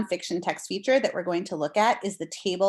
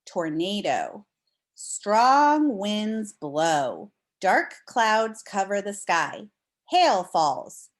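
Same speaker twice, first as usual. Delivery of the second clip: slow, expressive read-aloud voice; reading to children; much slower than usual. Acted. Teacher reading a storm book to the class, expressive and slow. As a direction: read the storybook slowly to the class.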